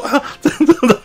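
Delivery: high, laughing disbelief. Retold or imitated. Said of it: "然后我看着说". (边笑边不敢相信地说)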